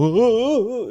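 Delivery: high, wavering "ooh"; mock "ooh". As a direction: act out a wobbly ooh. Retold cry at the ledge.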